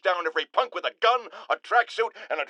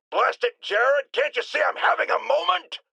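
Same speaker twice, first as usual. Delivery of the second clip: irritated outburst; 6 semitones higher than usual. Acted. Snapping at his producer mid-speech.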